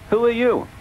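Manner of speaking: Bertie voice. A narrator's reading. Bertie echoes question.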